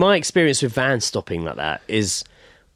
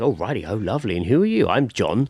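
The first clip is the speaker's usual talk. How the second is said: oblivious man; 6 semitones lower than usual. Acted. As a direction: play a mildly clueless, chatty fellow. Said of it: "he's completely oblivious".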